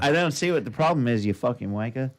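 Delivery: hammed-up fake British grumble; terrible British accent. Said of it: "Terrible accents".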